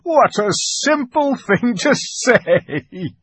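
high, loud, drawn-out mirthful exclamation; uproariously amused, stretching the words; great hearty laugh. A narrator's reading. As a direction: crow with amusement at a silly idea. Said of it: "with a great laugh".

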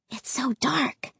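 hushed, slow and soft; whispered. A narrator's reading. Narrator as the child in the dark street, whispered. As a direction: drop to a slow hush. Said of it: "I whispered".

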